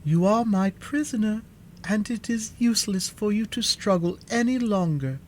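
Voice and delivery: high, sweetly composed sorceress; soft, sweet voice. A narrator's reading. Sorceress telling the witch she is captured, sweetly. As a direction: speak high and sweetly, yet firmly. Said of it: "said Glinda in her soft, sweet voice".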